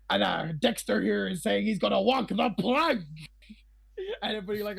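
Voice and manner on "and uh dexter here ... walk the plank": lightly voiced pirate crier; a hint of pirate proclamation; pirate announcing. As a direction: announce it to the crew as a pirate, rising into the final word. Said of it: "one person comes back and goes".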